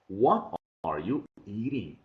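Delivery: slow, word-by-word teacher repetition of "What are you eating"; "What are you eating" drawn out for dictation; slow model sentence. Shown as a demonstration. Teacher repeats sentence slowly for dictation.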